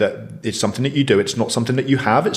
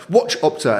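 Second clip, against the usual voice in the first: imitated toddler; 5 semitones higher than usual. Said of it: "And then he'll be like".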